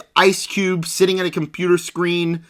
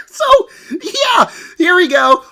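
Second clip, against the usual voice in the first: laughing resignation; 11 semitones higher, 3 dB louder, slower than usual. Real, not acted.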